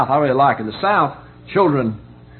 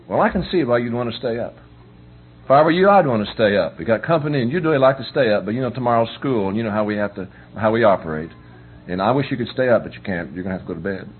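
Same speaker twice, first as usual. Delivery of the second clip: gentle parent. Retold or imitated. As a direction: let the child down kindly. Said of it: "Here's what you say".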